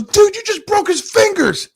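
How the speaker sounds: high, loud mock shocked cry; shocked bystander. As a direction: sound stunned at what you just saw. Friend shocked at broken fingers.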